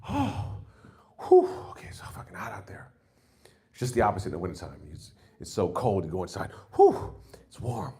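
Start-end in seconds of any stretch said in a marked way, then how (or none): 0.1-2.9 mock relief. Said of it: "you're like".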